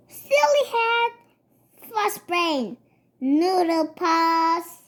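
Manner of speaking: sing-song taunting like a cub; childish name-calling. Acted. Cubs calling each other names.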